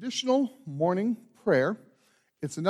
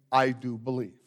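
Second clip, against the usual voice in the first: modelled response; 4 semitones lower than usual. Shown as a demonstration. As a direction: show them the words to answer. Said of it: "then declare by saying".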